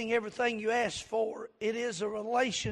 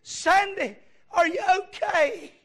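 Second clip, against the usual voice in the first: higher, louder calling out, retold; imitated hollering; 8 semitones higher, 8 dB louder, slower than usual. Preacher imitating his father rousing his fainted wife, hollering. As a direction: holler the name as if rousing someone. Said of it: "I just kept hollering at her".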